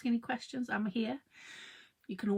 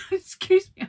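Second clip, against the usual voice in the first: high, loud excuse me after coughing; 11 semitones higher, 14 dB louder than usual. Real, not acted. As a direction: blurt out the apology. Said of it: "I'm coughing".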